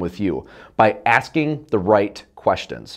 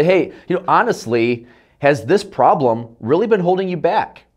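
curious rising tone; 5 semitones higher than usual. Shown as a demonstration. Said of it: "my vocal inflection will go up".

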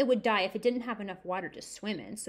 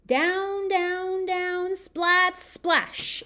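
higher, louder "down, down, down"; building drama; 8 semitones higher, 6 dB louder, much slower than usual. A narrator's reading. Fish falls from the sky, dramatic rising read. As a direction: follow the fish falling down.

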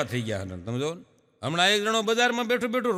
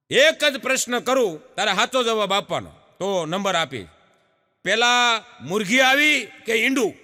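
teacher voice; 2 semitones higher than usual. Retold or imitated. Teacher questions boy.

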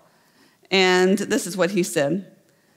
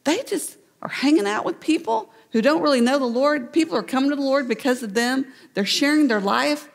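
admiring onlookers; 5 semitones higher than usual. Pretend. Imagined people praising them.

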